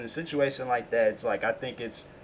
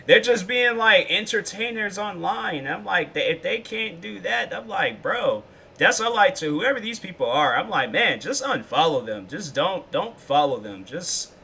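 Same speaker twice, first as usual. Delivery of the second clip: higher, louder exasperated rant; worked-up rant; 4 semitones higher, 3 dB louder than usual. Retold or imitated. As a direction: rant at the haters, fired up.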